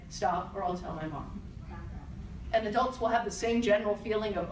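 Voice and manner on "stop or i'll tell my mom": calm. Shown as a demonstration. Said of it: "Calmly say".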